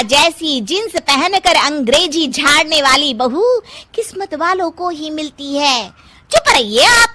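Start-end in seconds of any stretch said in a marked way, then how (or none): 6.3-7.1 sharp hush order. Acted. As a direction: shut him up firmly. Wife silencing husband.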